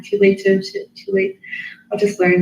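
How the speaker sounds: high self-mocking voice. Real, not acted. Self-talk in sudden high voice.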